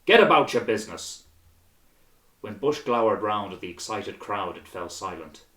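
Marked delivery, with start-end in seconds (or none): 0.1-1.2 loud barked order, louder still; roaring. A narrator's reading. Bush roaring the crowd back to work. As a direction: drive them back to work with a roar. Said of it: "he roared".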